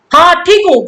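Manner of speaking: mock annoyed, clearly not fine; touch of anger in a curt yes; irritated reply. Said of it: "गुस्से में बोल रहा है".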